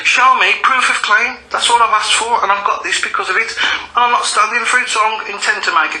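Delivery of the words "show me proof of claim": "Show me proof of claim" said slowly, each word weighted, a little higher; retelling a firm demand for proof; slow emphatic demand. Retold or imitated. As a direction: spell out the demand word by word, firmly. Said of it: "All I'm asking for is".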